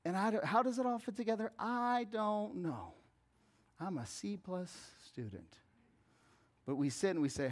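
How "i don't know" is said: slow, drawn-out, higher admission; emphatic not knowing. Real, not acted. Preacher admitting he can't fit it all together, drawn-out helplessness. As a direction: stretch every word of the admission.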